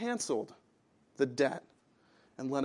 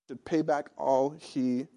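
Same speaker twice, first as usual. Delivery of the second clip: normal talking voice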